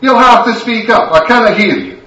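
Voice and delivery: loud, high scolding that builds to a shout; furious Scottish wife. Acted. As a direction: drag him home with a telling-off.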